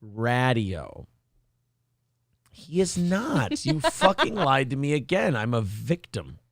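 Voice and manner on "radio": drawn out mockingly. Mocking the streamer's name.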